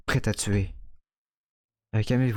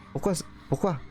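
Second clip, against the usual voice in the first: tearful; 7 semitones higher, 4 dB quieter than usual. Acted. Child finds blood, distraught.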